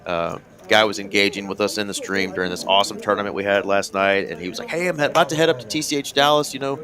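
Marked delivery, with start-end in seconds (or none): 4.7-6.8 higher, chipper quoted offer; imitating an eager helper, pitched up; friendly viewer quote. Retelling the troll's food offer, higher voice.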